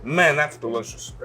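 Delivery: talking through a mouthful of burger; words round a big bite; mouth full. Real, not acted. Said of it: "Sorry, I'm, like, talking with my mouth full".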